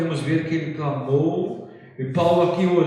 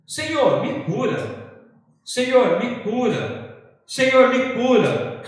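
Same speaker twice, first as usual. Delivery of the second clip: drawn-out, raised plea acting out Paul; pleading prayer; 6 semitones higher, 3 dB louder, slower than usual. Preacher voices Paul asking God three times, pleading. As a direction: cry out slowly to God, imitating repeated begging. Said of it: "Paulo pediu três vezes".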